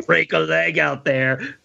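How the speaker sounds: slow, punchy action-hero line; lightly voiced tough-guy pep talk; Commando style. Podcaster mocking a movie line in a light Commando style. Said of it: "that's like Commando style".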